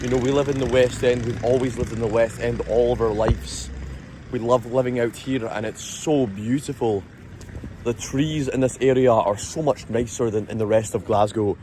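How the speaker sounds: put-on Bearsden accent. Showing off the posh West End life, Bearsden accent. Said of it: "that's my best attempt at, um, Bearsden".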